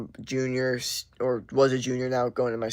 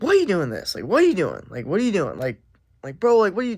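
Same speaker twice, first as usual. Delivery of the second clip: high, louder mock of a rambling dude; imitating the dude; 7 semitones higher, 5 dB louder, faster than usual. Retelling a guy's nonsense chatter, imitated high. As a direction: jab back at him in a raised, pushy voice. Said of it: "being like".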